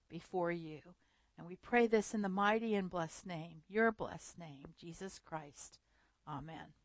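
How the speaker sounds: soft, reverent prayer voice. Acted. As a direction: pray gently to the Lord. Opening prayer.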